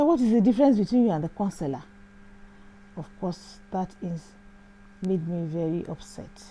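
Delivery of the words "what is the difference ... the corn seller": fast, louder sneering comeback; mocking taunt. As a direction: throw the insult back at her quickly. Rude driver taunts her.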